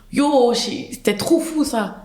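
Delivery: excited Montreal slang, addressed to a friend; Montreal accent. Shown as a demonstration. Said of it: "je parle avec un accent montréalais".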